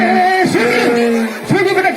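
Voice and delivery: high-pitched, fussing teacher; alarmed concern. Acted. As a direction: ask the crying pupil in a high, worried voice. Teacher reacts to pupil crying.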